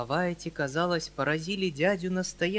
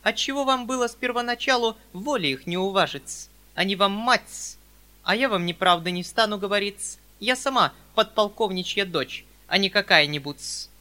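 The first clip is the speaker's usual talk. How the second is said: high, louder haughty spinster; high, louder proud spinster voice; prim spinster; 6 semitones higher, 9 dB louder than usual. Acted. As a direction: boast her rank as the old maid. Perepelitsyna voice continued.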